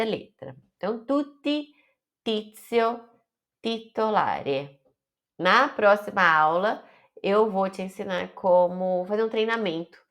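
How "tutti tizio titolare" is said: "tutti" stressed high, pure t; "titolare" slow, hard t; clean Italian t. Shown as a demonstration. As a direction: clear Italian t sound. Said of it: "falar as letras com o som da própria".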